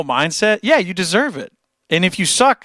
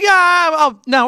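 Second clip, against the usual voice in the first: higher and louder, pumping himself up; hyped self-talk; 13 semitones higher, 6 dB louder, slower than usual. Pretend. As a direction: talk yourself into it with a burst of nerve. Acting out confident self-talk.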